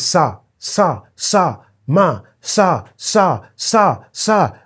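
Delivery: mock the endless sir; mocking repeated sir. Shown as a demonstration. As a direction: parody the endless sirs. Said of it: "This is how we talk in Africa".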